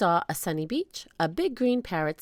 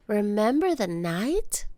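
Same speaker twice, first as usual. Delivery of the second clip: put-on girl voice; 3 semitones higher, slower than usual. Annie voiced by narrator.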